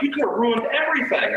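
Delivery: high-pitched furious reenacted rant; retold tirade. Man telling off the woman who faked seizures, high angry rant. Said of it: "I just let her fucking have it".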